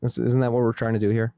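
exasperated. Real, not acted. Challenges cohost's indifference.

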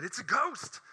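high, loud cry of fear; frightened cry. Acted. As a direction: shout it like you've seen a ghost. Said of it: "And they cried out in fear".

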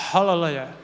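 low, exaggerated American hallelujah; North American accent. Preacher asked to repeat it, hammed-up North American accent. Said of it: "y ponen acento, mm, norteamericano".

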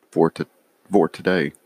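hiccuping mid-sentence; with hiccups. Real, not acted. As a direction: talk through the hiccups. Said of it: "I'm hiccuping".

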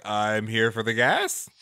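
mock forgetful actor. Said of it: "I bet you he just forgot his lines".

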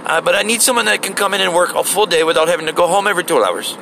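lightly mocking manager voice; imitating the store lady. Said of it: "the little Indian lady's like".

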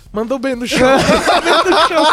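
laughing mock fan. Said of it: "virou pras outras duas pessoas".

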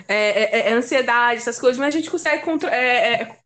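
real hesitant stumbling over words; stammer, repeating little filler syllables. Real, not acted. Podcast guest telling listeners how she feels, stammering. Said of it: "por que eu tô gaguejando".

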